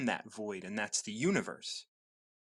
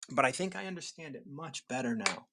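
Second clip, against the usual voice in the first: pen in mouth. Real, not acted. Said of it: "I have a pen in my mouth".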